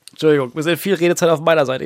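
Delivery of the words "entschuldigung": slightly choked voice after coughing; frog in throat. Real, not acted. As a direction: talk past a tickle in the throat. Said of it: "Ich hab irgendwas im Hals".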